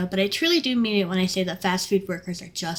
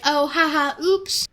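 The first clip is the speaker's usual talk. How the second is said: high, fake-innocent oops; mock lady; 6 semitones higher, slower than usual. Worker mimicking a lady who flicked ashes at her. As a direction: ham up her careless giggle.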